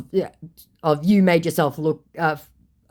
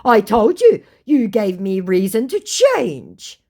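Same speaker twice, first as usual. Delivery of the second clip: mock scammer voice; 6 semitones higher, 6 dB louder, slower than usual. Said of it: "my scammer says".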